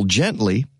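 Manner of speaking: "gently" drawn out and weighted; stress on gently. Shown as a demonstration. Host reading a tree care tip, stressing "gently". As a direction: lean on the word "gently". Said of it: "I emphasize the word gently".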